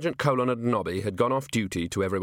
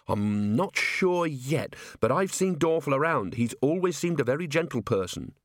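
higher-pitched, thoughtful defender; earnest officer; 5 semitones higher than usual. Acted. Officer vouches for a gentle golem, earnest. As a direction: make the case earnestly.

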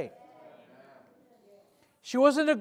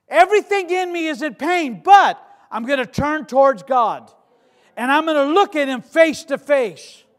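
pained resolve; 5 semitones higher, 8 dB louder than usual. Acted. Acts out widow's resolve in pain.

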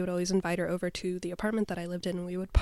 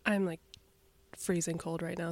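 shivering. Real, not acted. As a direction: voice shaking from the cold. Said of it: "Sorry, I'm shaking".

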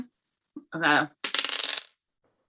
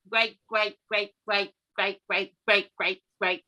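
normal talking voice

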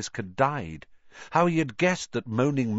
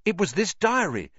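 quickly; 10 semitones higher, 3 dB louder than usual. A narrator's reading. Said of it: "said Harry quickly".

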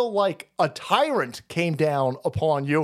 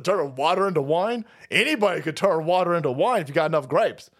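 ordinary talk, nothing marked

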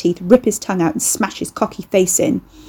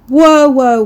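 alarmed halt; 6 semitones higher, 8 dB louder than usual. Acted. Carrie stops Ricky's story.

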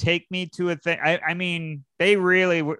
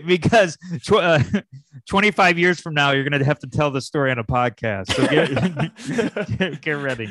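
laughing; 3 dB louder than usual. Real, not acted. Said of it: "laughing while telling".

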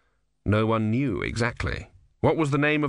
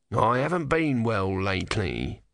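tortoise voice. Acted. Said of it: "said the tortoise".

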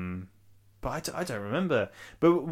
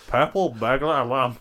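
Scottish accent; 2 semitones higher, 5 dB louder than usual. Shown as a demonstration. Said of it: "in a Scottish accent".

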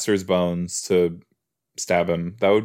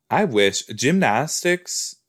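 odd intonation; 4 semitones higher, slower than usual. Real, not acted. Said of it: "I don't know why I said it like that".

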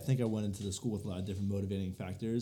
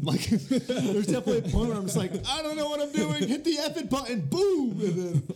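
loud, high, excited burst; loud excited outburst; 13 semitones higher, 5 dB louder than usual. Real, not acted. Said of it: "too loud".

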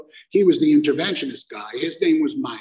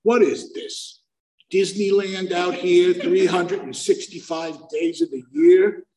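louder, slow, higher astonishment; amazed question; 5 semitones higher, 5 dB louder, slower than usual. Retold or imitated. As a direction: gawk at the lights out loud. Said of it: "the only thing I say to the driver is".

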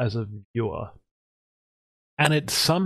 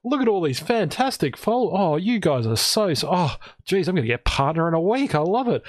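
higher, gushing mock gratitude; giddy delight; 5 semitones higher than usual. Streamer thanking a hate raider, giddy delight. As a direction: gush thanks as if tickled by it all. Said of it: "I'm sitting there giggling, going".

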